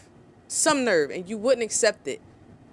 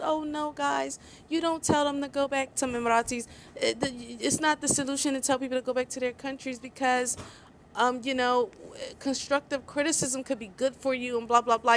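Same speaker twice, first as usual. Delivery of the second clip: higher, softer sing-song mockery of the apologists; mock gullible voice; 4 semitones higher, 5 dB quieter than usual. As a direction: mimic them as naive and pleading. Mocking gullible excuse-makers.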